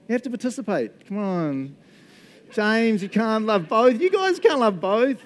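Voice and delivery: loud, high, drawn-out playful protest; mock scolding. Pastor to James during a hands-up vote, mock scolding. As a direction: call out in hammed-up indignation, slowly.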